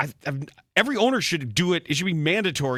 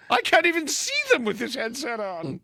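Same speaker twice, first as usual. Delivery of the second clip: high, far calling out; mock call for mother; 8 semitones higher than usual. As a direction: call out for mother like a lost old man. Confused owner voiced.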